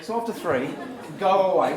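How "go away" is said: loud firm go away; bad dog voice. Shown as a demonstration. Trainer leading the group go away, loud. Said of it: "in your best bad dog voice".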